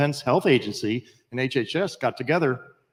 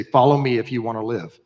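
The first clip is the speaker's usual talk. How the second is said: commanding rescue call; 5 dB louder than usual. Retold or imitated. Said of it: "we look at 'em and we say".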